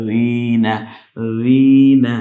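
রিনা opened with a soft voiced "dh", ee held; soft zal. Shown as a demonstration. Teacher shows the zal is soft, soft zal. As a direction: soften the first consonant of রিনা into a gentle th-sound. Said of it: "নরম করে পড়ে".

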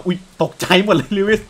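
startled yelp into words. Real, not acted. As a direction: jump as if someone just appeared.

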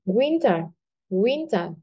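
"winter" with a strong "win", light "ter"; stress on first syllable. Shown as a demonstration. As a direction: lean on "win" in "winter", let the ending drop. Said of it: "Trọng âm rơi vào âm tiết thứ nhất". (nhấn âm đầu "win" trong "winter")

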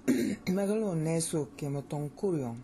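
"Megalo nesu kemotonkurion" with an even, euphonious flow; flowing Americanized Greek. Shown as a demonstration. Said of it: "See how, how well that works".

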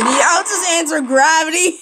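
said with a laugh breaking out; joking. Real, not acted. Player jokingly blaming gravity, laughing. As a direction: toss it off as a silly joke. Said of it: "It's just a joke".

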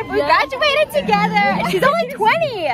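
high, loud happy exclaim; excited. Real, not acted. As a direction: burst with joy. Celebrating graduation with friend.

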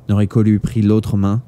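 usual speaking voice

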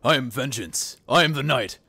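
vigilante vow building to a shout; over-the-top dark hero proclamation; Batman. Acted. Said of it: "That's too much".

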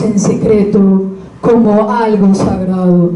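measured verse reading, pausing after each phrase; poetry recitation. Acted. Sharing a poem about a knife, measured recitation. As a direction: recite it line by line, evenly.

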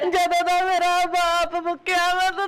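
mildly wailing complaint; tearful lament. Acted. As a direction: plead through put-on tears. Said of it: "ਬਾਈ ਰੋ ਨਾ ਮੇਰੀ ਧੀ". (ਰੋਣਹਾਕੀ ਆਵਾਜ਼ ਵਿੱਚ ਸ਼ਿਕਾਇਤ)

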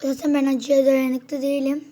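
talking through a mouthful of spicy food; words pushed out around hot food; mouth full of hot food. Real, not acted. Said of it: "dilim yanıyor şu an". (ağzı acı yemekle dolu konuşma)

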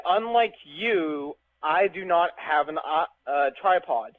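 "Unlike you" spelled out very slowly; slow deliberate repeat. Shown as a demonstration. Repeating his own words slowly to prove his point. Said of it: "I said".

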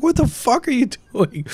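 high-pitched, slowed furious yell; furious coach yelling. Retold or imitated. Coach catching the players wrecking the house, high furious yell. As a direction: bellow at the kids to get off the roof. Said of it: "He was so pissed".

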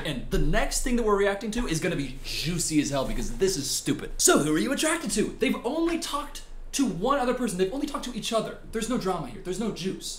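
quiet muttering. Real, not acted.

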